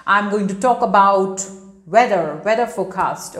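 emphatic news-report delivery; news reporter. Acted. Teacher showing how they report in news, reporter style. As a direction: announce it like a reporter, stressing "weather". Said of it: "in news reporting, how do they report?".

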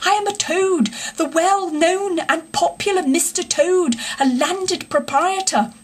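high-pitched theatrical supplication; pleading cry. A narrator's reading. Toad begging the engine driver for rescue, pleading. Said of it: "raising his clasped paws in supplication cried".

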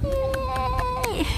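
high, long squealed cheer; delighted cheer. Real, not acted. Streamer cheering the news about Japan, delighted squeal. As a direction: hold it out high and happily.

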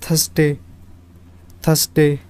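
थर्सडे said thurz-day, two syllables; correct pronunciation. Shown as a demonstration. Teacher modelling the right sound for students. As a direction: clean thurz-day, no extra vowel. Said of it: "थर्सडे का सही pronunciation है".

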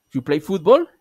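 football rising at the end as a question; rising question tune. Shown as a demonstration. Teacher showing an informal question, football rising. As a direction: make You play football? a question by lifting football. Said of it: "subiendo simplemente la entonación".

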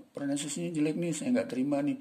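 high-pitched, fussy rejection; mock job interviewer. Interviewer rejecting an applicant over pronunciation, mock disapproval. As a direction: turn them down as a picky interviewer, pitched high. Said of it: "Nggak mungkin ditanya ngelamar kerja".

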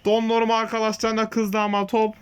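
steady match commentary voice; live play-by-play. Acted. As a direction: call the game like a TV commentator. Commentates his own match.

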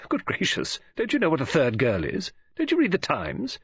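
lightly voiced woman taken aback; rising, animated disbelief at his ignorance; Mrs Oliver, incredulous.

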